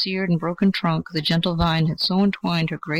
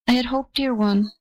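ivy's voice; 7 semitones higher than usual. A narrator's reading. Ivy voiced high.

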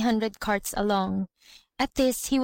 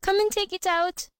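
high pleading cry; 8 semitones higher than usual. A narrator's reading. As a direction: beg her mother to help, pitched high. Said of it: "she cried".

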